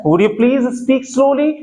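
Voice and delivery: each word laid out slowly and clearly; slow model sentence. Shown as a demonstration. Teacher slowly models a phrase for students. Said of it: "next आता है".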